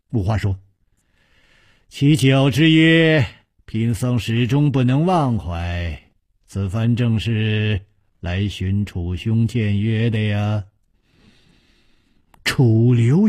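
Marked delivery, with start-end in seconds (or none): 1.9-10.7 lightly voiced, unhurried monk; slow, courteous monk's reply; composed monk. Narrator voices the monk Wuhua. (舒缓从容的僧人口吻)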